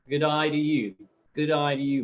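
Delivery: a weak mock Australian accent. Greeting a chat viewer in a weak mock Australian accent. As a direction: try an Aussie "G'day" greeting, not too good. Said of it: "I try and do an Australian accent".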